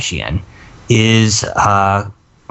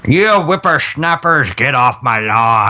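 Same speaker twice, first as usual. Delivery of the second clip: put-on old prospector. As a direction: grumble like an old coot. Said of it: "I look like I'm eighty years old".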